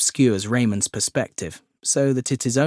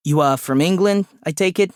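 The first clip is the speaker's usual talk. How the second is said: high-pitched, puffed little man; slightly out of breath, voice raised; panting; 6 semitones higher, 4 dB louder than usual. A narrator's reading. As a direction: talk as if you've jogged across the office. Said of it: "The man is panting as though he's jogged".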